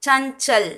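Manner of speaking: "சஞ்சல்" as chan-chal, ny sound before ch. Shown as a demonstration. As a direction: model "சஞ்சல்" carefully in two clear parts. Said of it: "சஞ்சல்னு pronounce பண்ணணும்".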